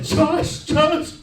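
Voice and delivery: high, mock-panicked little brother; freaking out. Little brother calling Josh, freaking out. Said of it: "My brother's freaking out".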